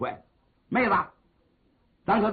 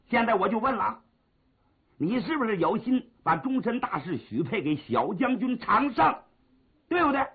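pressing question; 4 semitones higher than usual. Acted. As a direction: push harder till the final demand. Brother presses for an answer. (哥哥逼问妹妹，越问越急)

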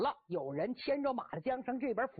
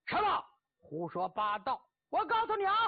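indignant outburst; 4 semitones higher, 4 dB louder than usual. Acted. Cheng Yaojin snaps at laughing soldiers.

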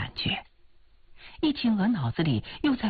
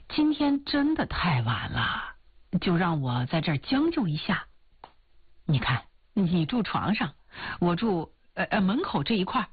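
拿腔拿调地央求，忽高忽低; 像追求者软磨硬泡地求留宿; 死缠软磨的追求者. Acted. Suitor wheedles heroine. (油腔滑调、死缠软磨的追求者)

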